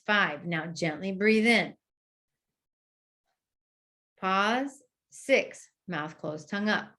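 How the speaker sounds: calm counting cues, slowing to relax; counting cue demo. Shown as a demonstration. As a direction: coach the patient through each count. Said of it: "And I'll say".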